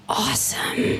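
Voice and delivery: breathy whisper; whispered awe. Retold or imitated. Little girl whispering to the painted stranger, awed.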